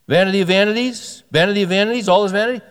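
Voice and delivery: preacher booming the verse; emphatic proclamation. Shown as a demonstration. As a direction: proclaim the repeated words for emphasis. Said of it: "Wiersbe says right out of the blocks".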